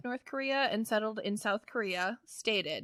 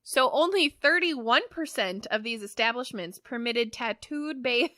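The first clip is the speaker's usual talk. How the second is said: ordinary talk, nothing marked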